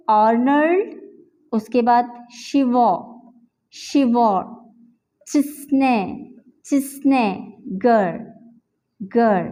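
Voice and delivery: आर्नल्ड, शिवो, चिस्ने, गर, each syllable said alone with pauses. Shown as a demonstration. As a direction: break आर्नल्ड शिवार्ट्जनेगर into separate syllables, each said twice. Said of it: "मैंने इसको different syllables में divide किया है". (हर syllable अलग-अलग, रुक-रुक कर)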